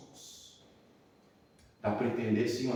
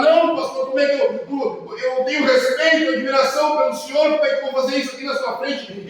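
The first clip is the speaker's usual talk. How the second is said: retold crying plea; 12 semitones higher, 7 dB louder than usual. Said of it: "E ele começou a chorar".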